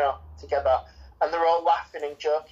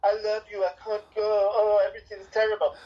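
mock melodramatic martyr; 5 semitones higher than usual. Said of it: "it's like".

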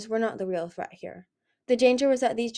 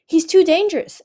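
loud, much higher desperate cry; 9 semitones higher, 12 dB louder than usual. A narrator's reading. Indigo with a blade at Darkstalker's neck, crying out loud. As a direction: fling it out in alarm. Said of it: "Indigo cried".

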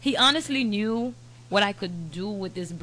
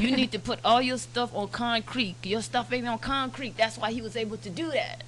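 higher, insistent lecturing voice; scolding lawyer; 4 semitones higher than usual. Retold or imitated. Lawyer lecturing a client about concrete, scolding. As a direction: drive the advice home as a mock lawyer.

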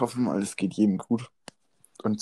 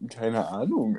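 laughing; 3 dB quieter, slower than usual. Real, not acted. Still laughing after the joke.

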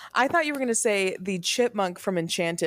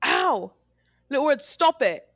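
pained yelps; 7 semitones higher than usual. Pretend. Wolf's face being yanked.

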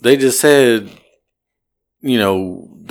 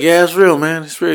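humouring; 5 semitones higher than usual. Retold or imitated. Driver humours drunk passenger.

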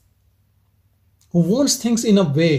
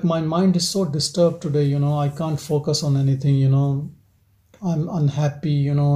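mock gloomy complaint; 3 semitones lower than usual. A person who can't focus, moaning lightly. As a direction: imitate a distracted, unhappy person. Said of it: "who is talking like this?".

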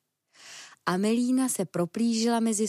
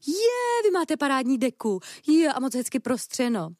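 delighted exclamation; 6 semitones higher, 4 dB louder than usual. Acted. Ferret delighted by the picnic.

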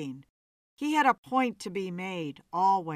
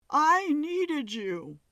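high, slow falsetto plea; 7 semitones higher, 3 dB louder, slower than usual. A narrator's reading. Medium voices the ghost in falsetto. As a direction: let it float up high and slow. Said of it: "His voice broke from a falsetto".

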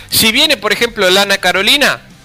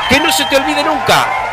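shouted warning; 2 semitones higher than usual. Acted. Lecturing about children.

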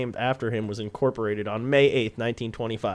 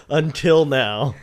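dramatic pause; 2 semitones higher, 4 dB louder, much slower than usual. Pretend. Slow dramatic repeat.

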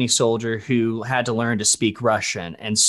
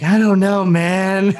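much higher, louder, put-on nervous voice; mock panic; 7 semitones higher, 5 dB louder, slower than usual. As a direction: act out sweating over a Russian paragraph. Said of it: "I'd be like".

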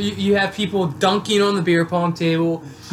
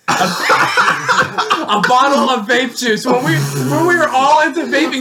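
laughing while explaining; 3 semitones higher than usual. Real, not acted. Laughing at the bet.

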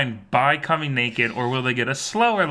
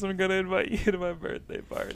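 lightly voiced imitation of a singer; 6 semitones higher, 5 dB quieter, faster than usual. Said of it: "she comes out and says".

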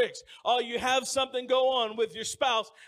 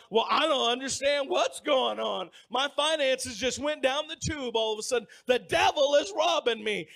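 a hint of a whining believer, louder; mock complaint; 4 semitones higher, 5 dB louder than usual. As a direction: complain like a puzzled churchgoer. Mocking a confused believer.

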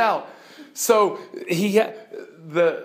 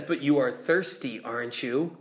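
lower, much softer, solemn lion; calm lion; 4 semitones lower, 4 dB quieter than usual. Acted. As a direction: answer gently but gravely. Lion questions Jill.

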